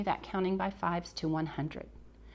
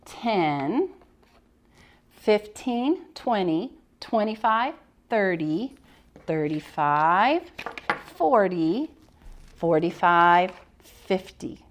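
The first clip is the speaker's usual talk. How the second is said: loud, drawn-out counting together; loud class count; 4 dB louder, much slower than usual. Shown as a demonstration. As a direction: lead the class counting loudly. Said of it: "We'd count".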